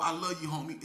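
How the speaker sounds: open, genuine affection in a normal speaking voice; sincere. Acted. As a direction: say it like you really mean it. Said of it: "a lot of 'em that really mean that".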